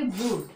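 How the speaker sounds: "ब्रूट" with long oo and silent e; one syllable "ब्रूट", closing on t; model pronunciation. Shown as a demonstration. Teacher answers own drill question, model pronunciation "ब्रूट". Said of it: "तो क्या बोलेंगे".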